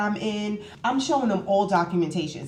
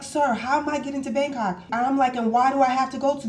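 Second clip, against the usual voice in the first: higher-pitched, disbelieving questions; mock-bewildered pushback, pitched up; retold protest; 6 semitones higher, faster than usual. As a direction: act out challenging an official. Retold protest to border officer.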